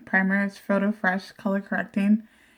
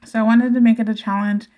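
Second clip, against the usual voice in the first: chewing gum; 4 dB louder, faster than usual. Real, not acted. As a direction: still chewing gum while talking. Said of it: "I do have gum in my mouth".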